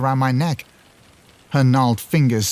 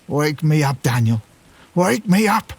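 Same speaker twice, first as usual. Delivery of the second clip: rising frightened wail; 4 semitones higher than usual. A narrator's reading. Dead father wailing at Daniel in the coffin. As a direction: wail it, climbing higher. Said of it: "and he wails".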